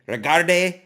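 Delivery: "Regardez mon booger" called out loud for students to repeat, mock French accent; teacher leads the class loudly through "Regardez mon booger" in a put-on French accent. Shown as a demonstration. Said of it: "Say it with me".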